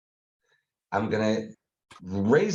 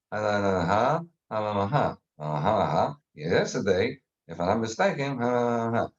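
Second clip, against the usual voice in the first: calm non-angry tone; 4 semitones lower than usual. Shown as a demonstration. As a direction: hum along calmly to show no anger. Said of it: "listen to the tone of my voice".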